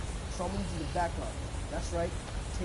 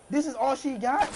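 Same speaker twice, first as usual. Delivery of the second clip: surprised; 6 semitones higher, 8 dB louder than usual. Real, not acted. Reacting to armor.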